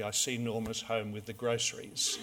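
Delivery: soft, low-key deadpan aside; very quiet. Retold or imitated. Lecturer to his class after screeching brakes, very quietly. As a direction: say it quietly, imitating an unruffled lecturer. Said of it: "he said very quietly".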